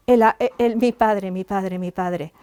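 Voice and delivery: a retold sob that dies away; imitated sobbing. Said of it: "pero llorando, llorando".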